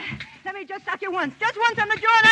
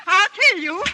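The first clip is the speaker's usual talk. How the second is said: angry; 5 dB louder than usual. Acted. Fight, she threatens him.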